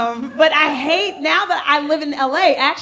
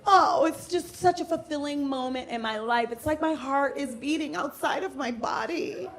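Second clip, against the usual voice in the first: gushing Facebook mom; 2 semitones higher, 6 dB quieter than usual. Retold or imitated. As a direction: coo it like a perfect Facebook mother. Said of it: "And they're like".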